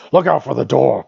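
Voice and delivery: high, loud goblin captain bellow. Acted. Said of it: "bellowed the captain".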